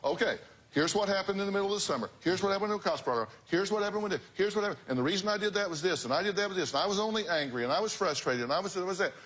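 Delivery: mock-whiny replay of their excuses; mimicking parents' excuses. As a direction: parrot their list of justifications, quick and dismissive. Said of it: "You've been saying".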